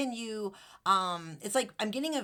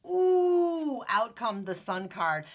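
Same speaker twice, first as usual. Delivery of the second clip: sports announcer; 3 semitones higher, 6 dB louder, much slower than usual. Real, not acted. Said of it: "Don't I sound like, like a sports announcer?".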